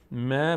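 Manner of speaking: مه with a light, fronted "ae"; thin reading. Shown as a demonstration. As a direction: model مه thin and held. («مه» باریک و کشیده)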